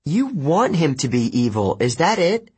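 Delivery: high-pitched accusation; mild yell. A narrator's reading. Annabeth accuses Percy over Luke, yelling mildly. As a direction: accuse heatedly without much volume. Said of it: "Annabeth yelled".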